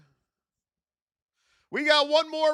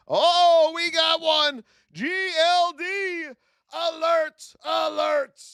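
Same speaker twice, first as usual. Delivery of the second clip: excited shouting; 6 semitones higher, 5 dB louder, slower than usual. Real, not acted. Trade alert fires on stream.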